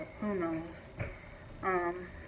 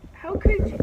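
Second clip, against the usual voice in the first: outraged question, much higher and louder, rising at the end; high rising outrage; 13 semitones higher, 6 dB louder than usual. Real, not acted. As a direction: ask it in high disbelief, voice climbing. Outraged at the dog's abusers.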